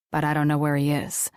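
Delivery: clipped low denial from Riker; Riker's denial. Acted.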